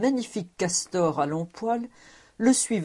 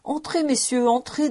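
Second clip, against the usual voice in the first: higher-pitched, smiling invitation; smiling welcome; 8 semitones higher than usual. A narrator's reading. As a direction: welcome the guests in with a smile. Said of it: "dit la vieille servante en souriant".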